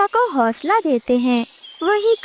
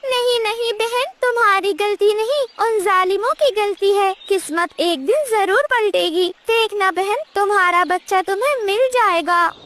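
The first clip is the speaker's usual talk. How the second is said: higher, gentle consoling; comforting parrot; 4 semitones higher than usual. Acted. Parrot comforts the mother sparrow, higher reassuring voice.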